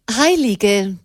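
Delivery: smiling mockery of the word saint; malicious smile. A narrator's reading. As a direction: savour the word with a smirk. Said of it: "lächelte Madame maliziös".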